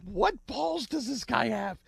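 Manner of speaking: high, slow, put-on voice of disbelief; amazed disbelief. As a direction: marvel at the nerve, drawn out. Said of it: "And I'm like".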